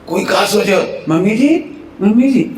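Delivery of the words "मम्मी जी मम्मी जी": higher-pitched show of calling mother-in-law; putting on politeness. Acted. Daughter-in-law calling mother-in-law before visiting relatives, put-on politeness. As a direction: call out sweetly for the relatives' benefit.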